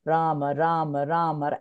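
low, softened steady chant; soothing mantra. Retold or imitated. Recalling mother praying over her crying child, soothing mantra. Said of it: "she'd be soothing me".

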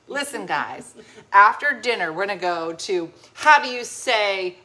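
halting mock-foreign English, slowing towards the end; picked-up foreign accent. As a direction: slip into a borrowed foreign accent. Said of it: "dumb American. I say".

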